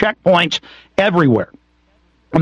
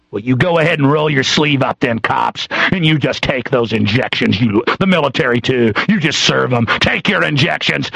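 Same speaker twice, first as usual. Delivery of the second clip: bitter sarcasm; 4 semitones lower than usual. Real, not acted. Bitter sarcastic urging of cops.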